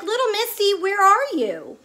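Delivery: retold searching call, stretched at the end; calling a cat. Owner to the missing stray, high singsong calling.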